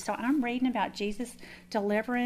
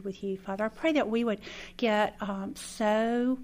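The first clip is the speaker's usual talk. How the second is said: earnest spoken prayer, lightly voiced. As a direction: pray sincerely to close the talk. Closing prayer to God.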